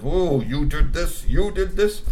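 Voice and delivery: rising angry accusation; accusing. A narrator's reading. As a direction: build to a shout of blame. Mudrub accusing Grassy.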